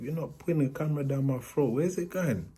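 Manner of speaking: comic horror; patient realizing where the camera goes; dawning alarm. Retold or imitated. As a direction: pitch rises high in realization.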